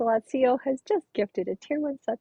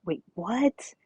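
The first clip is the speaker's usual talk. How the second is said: whispered disbelief; 4 semitones lower than usual. Real, not acted. Confused as raid arrives.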